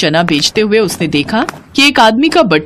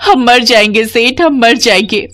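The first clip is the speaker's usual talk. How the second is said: raised-pitch woman's plea; desperate pleading; 4 semitones higher, 3 dB louder than usual. Acted. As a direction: beg the moneylender in despair. Family begs moneylender. (बेबसी में गिड़गिड़ाते हुए)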